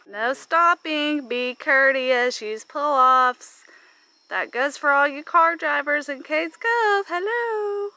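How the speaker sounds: loud, drawn-out reminder rising to a high hello; mock public announcement. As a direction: call the rules out pointedly to drivers. Addressing absent car drivers, scolding.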